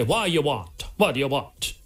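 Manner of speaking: put-on chip shop owner's Italian accent; lightly imitated Italian chipper man. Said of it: "In his Italian accent".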